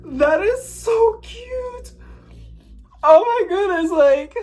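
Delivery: drawn-out, very high squeal; emotional gushing. Real, not acted. Vlogger overcome by cute plants, emotional squeal. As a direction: melt over something adorable. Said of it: "I'm so sorry if I got emotional".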